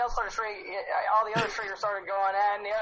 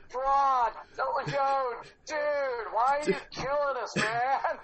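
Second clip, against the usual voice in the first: lightly voiced hippie surfer; surfer dude; 2 semitones higher, slower than usual. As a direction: plead like a hurt surfer dude. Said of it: "speak like a surfer dude".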